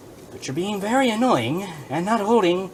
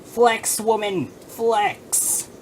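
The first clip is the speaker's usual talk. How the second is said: exasperated yelling; 6 semitones higher, much slower than usual. Real, not acted. Yelling at figure.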